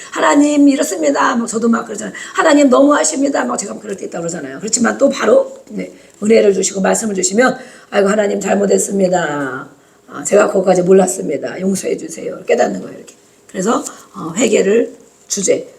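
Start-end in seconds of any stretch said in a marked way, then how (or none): 0.1-1.3 higher-pitched, acted complaint; grumbling prayer. A believer grumbling to God in prayer, acted complaint. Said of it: "투설하고 막 기도할 때". 2.3-3.4 higher, slightly pushed mock complaint; grumbling prayer. A believer complaining that God is unfair, acted grumble. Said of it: "투설하고 막 기도할 때". 7.9-12.4 contrite prayer. Acted. Voices a believer repenting to God.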